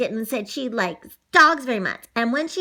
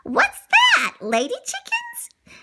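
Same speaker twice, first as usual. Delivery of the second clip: curious puppy. Acted. Lady asks the hens.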